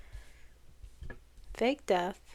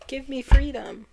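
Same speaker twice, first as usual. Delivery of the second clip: loud, higher cry for freedom; exclaiming freedom; 5 semitones higher, 10 dB louder than usual. Retold or imitated. Fool demands freedom, a loud, higher carefree cry. Fool voiced in tarot story.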